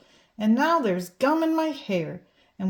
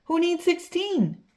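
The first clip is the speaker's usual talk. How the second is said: indignant; 8 semitones higher than usual. Acted. Child's indignant aside.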